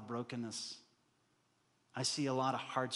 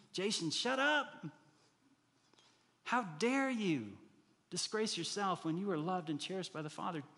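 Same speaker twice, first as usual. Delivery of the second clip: self rebuke; 4 semitones higher than usual. Acted. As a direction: scold yourself like a firm preacher. Rebuking himself in voiced quote.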